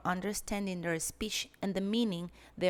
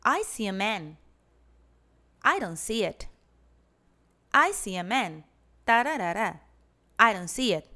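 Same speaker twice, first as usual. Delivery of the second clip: louder, with strong beats on I and see; stress-timed rhythm; 6 dB louder than usual. Shown as a demonstration. Teacher demonstrates English stress timing, louder and punchier. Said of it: "In English, we would say something like".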